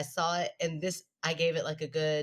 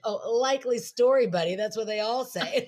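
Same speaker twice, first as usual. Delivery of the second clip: sarcastic teasing; 5 semitones higher, 5 dB louder than usual. Retold or imitated. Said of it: "Aaron was like".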